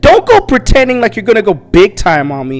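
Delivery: a hunter tearing into her rival in an argument, loud and angry; angry retort. Retold or imitated. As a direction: snap back at him as if fed up. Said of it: "And she's like".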